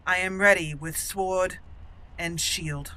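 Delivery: lightly voiced, stately noblewoman; formal declaration with deliberate pauses; proud dwarf noble. Noblewoman declares herself ready to the Proving Master, lightly stately.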